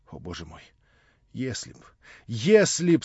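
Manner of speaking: begging, rising from hush to an outcry; pleading cry. Acted. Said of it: "с мольбою вскричала она". (с мольбой, от тихого вздоха к возгласу)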